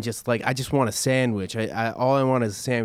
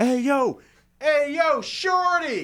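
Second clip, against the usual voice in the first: put-on very high, swooping upward yell. Retelling a guy explaining how to call him down from his room; retelling a yell up. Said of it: "just yell out".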